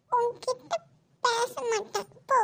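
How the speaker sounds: tearful sulking refusal; crying child. Acted. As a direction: sniffle through a pouting refusal. Child refuses to talk, upset.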